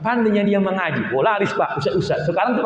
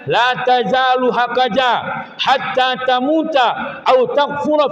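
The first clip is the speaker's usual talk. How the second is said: voicing the torturers; 4 semitones higher, slower than usual. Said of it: "Lalu orang-orang kafir mengatakan".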